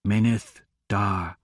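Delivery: low, slow, rumbling monster voice; rumbling beast. A narrator's reading. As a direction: speak like thunder from a huge beast. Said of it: "its voice rumbled the chamber like".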